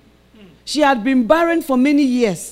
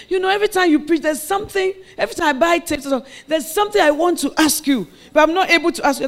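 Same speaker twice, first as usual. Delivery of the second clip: higher, shy friend voice; lightly voiced timid friend; friend's hesitant request; 6 semitones higher, faster than usual. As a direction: speak like a friend working up to ask.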